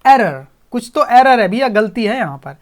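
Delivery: slow, loud robot alarm; robot calling out the error, loud and slow; robot shouting error. Acted. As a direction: blare it like a machine alarm. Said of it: "ऐसा robot चिल्लाने लग गया".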